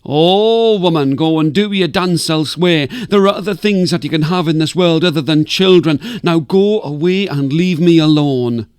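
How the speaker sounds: put-on loud, cranky old woman shouting down; grumpy sleeper yelling to be left alone; mild mock scream. Wise woman yells down at the dancer, cranky and loud. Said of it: "she would scream down at Anjalara".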